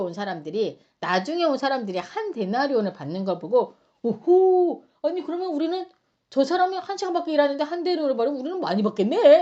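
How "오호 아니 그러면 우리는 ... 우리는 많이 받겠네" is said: mock eager hope. Workers voiced expecting more pay.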